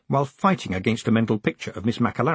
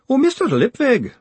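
high wailing cry of a name; high-pitched wailing plea; 12 semitones higher, 5 dB louder than usual. Acted. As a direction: wail the name, distraught. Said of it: "a wailing woman rushes into a room".

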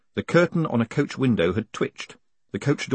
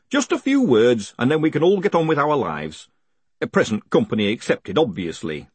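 higher voice settling down at the end; coaxing hangman; 3 semitones higher, 3 dB louder than usual. Acted. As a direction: gently chivvy the prisoner.

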